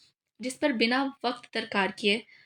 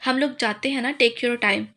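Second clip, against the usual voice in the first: louder, teasing repeat with a sly push; mischievous; 4 dB louder, slower than usual. Acted. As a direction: tease them as you leave, louder. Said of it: "वजदान शरारत से बोला".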